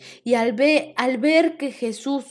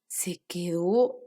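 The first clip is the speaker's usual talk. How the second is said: breathless whisper of wonder; amazed whisper; 4 semitones lower, 4 dB quieter, slower than usual. Acted. Teacher telling children how amazed Zaqueo was, awed whisper. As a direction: whisper it in awe.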